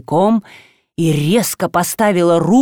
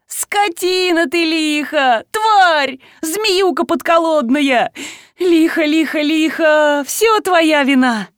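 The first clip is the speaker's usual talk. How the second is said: high, slow, keening insults; mock wailing curses; 9 semitones higher, slower than usual. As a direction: curse it like a staged lament. Vasilisa's staged wailing insults.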